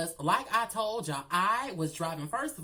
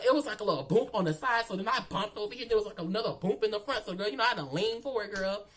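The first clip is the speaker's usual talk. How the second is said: loud excited storytelling; 3 semitones higher, 4 dB louder, faster than usual. Real, not acted. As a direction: caught up in the story, louder. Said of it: "I'm so loud".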